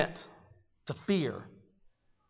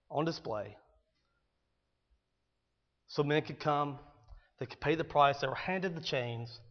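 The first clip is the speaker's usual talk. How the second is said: hushed; 2 semitones lower, 10 dB quieter than usual. Real, not acted. Somber description of her chains.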